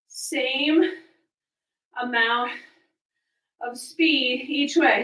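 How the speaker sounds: winded mid-workout; breathing hard between words. Real, not acted. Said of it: "I'm really out of breath".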